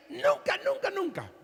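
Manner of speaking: high, whining nunca, nunca, nunca; whiny king. Retold or imitated. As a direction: sulk like a spoiled king. King Ahab whining about the prophet.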